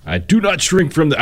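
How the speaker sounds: brief, abandoned Massachusetts accent attempt; failed Massachusetts accent. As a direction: start a Kennedy Massachusetts accent, then give up. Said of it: "I can't do a, do a Massachusetts accent".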